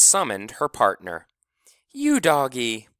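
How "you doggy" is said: calling out. A narrator's reading. Summons her dog partner.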